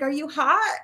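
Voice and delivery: high, giggling tease; amused friend's laughing question. Retold or imitated. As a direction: ask it through a laugh. Friend laughing at her sweating.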